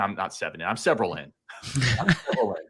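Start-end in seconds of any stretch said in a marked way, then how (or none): 1.6-2.6 laughing through a quick correction. Real, not acted. Co-host admitting he is several drinks in, laughing fast.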